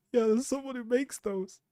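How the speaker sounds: normal talking voice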